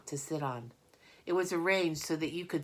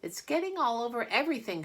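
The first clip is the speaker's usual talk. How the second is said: loud high fast complaint; shouting; 8 semitones higher, 4 dB louder, faster than usual. Acted. Fern shouting to her aunt about the mess, loud and fast. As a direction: call it out in alarm. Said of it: "shouted Fern".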